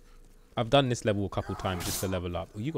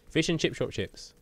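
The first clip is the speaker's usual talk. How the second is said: "Fish and chip shop chips" in one higher, quick run; quick tongue-twister; 6 semitones higher than usual. Shown as a demonstration. Streamer proving he can say "Fish and chip shop chips", quickly. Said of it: "I can say that quickly".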